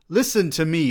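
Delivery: high, loud opening bark; loud command. Acted. Bledsoe loudly cutting off the student. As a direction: snap it out to silence him. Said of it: "he said loudly".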